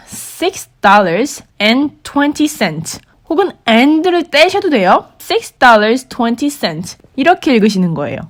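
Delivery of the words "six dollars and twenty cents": every word spelled out slowly for learners; slow teaching demo. Shown as a demonstration. Teacher showing learners how to read a price, slow and clear. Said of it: "그러니까".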